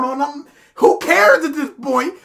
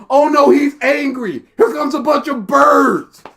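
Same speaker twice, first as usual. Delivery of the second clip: mock panic; slower than usual. Mock panicked reaction to birds.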